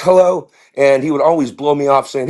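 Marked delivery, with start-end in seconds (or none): 0.0-0.5 higher mock mother voice; put-on motherly greeting; friend's mother. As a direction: imitate a friend's mom saying hello. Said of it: "his mother talked like this".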